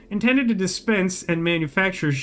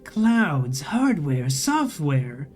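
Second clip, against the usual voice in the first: slow, whirring robotic drone; whining machine voice; slower than usual. A narrator's reading. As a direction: speak like a glitching vending machine.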